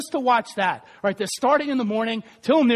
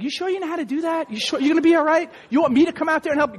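lightly imitated doubtful questioner; quick run of fussing questions; Megan; 3 semitones higher, faster than usual. Helper doubting he can light the grill, quick and concerned. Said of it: "Megan's always like".

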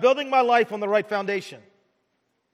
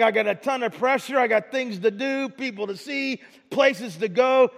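busy excuse-maker. Retold or imitated. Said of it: "And we're like".

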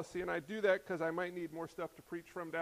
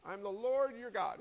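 passing quickly by. Shown as a demonstration. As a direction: read it straight through without pausing. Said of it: "It just kind of flies right by".

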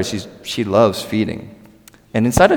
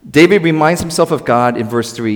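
ordinary delivery

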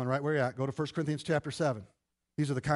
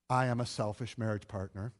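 quiet confession; 6 semitones lower, 4 dB quieter than usual. Shown as a demonstration. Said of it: "Say that with me".

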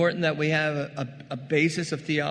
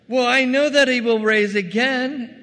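loud, high know-it-all answer; know-it-all Martha; 8 semitones higher, 11 dB louder than usual. Acted. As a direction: lecture him like she knows the doctrine. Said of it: "She's gonna get all theological".

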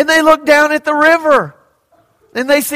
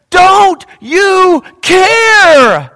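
very slow, higher pleading shout; desperate cry; 6 semitones higher, 6 dB louder, much slower than usual. Acted. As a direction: drag out the plea against the storm. Frightened disciples in the storm.

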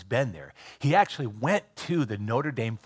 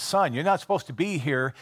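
mildly raised, higher-pitched retold call; mock yell; 4 semitones higher than usual. Field hand calls over to an intruder, mock yell. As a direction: call over to him, only half shouting. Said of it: "he yells over to him".

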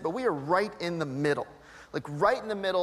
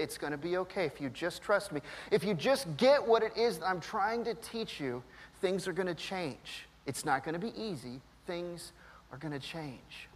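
gentle reassurance; 4 dB quieter than usual. Pretend. God's voice, softly imagined.

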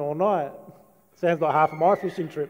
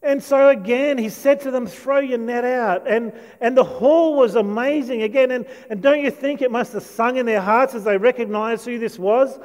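excited preaching; 5 semitones higher, 4 dB louder than usual. Real, not acted. Preacher rises to excited peak.

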